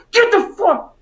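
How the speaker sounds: high strained drill sergeant yell; drill instructor voice. Retold or imitated. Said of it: "in drill instructor voice".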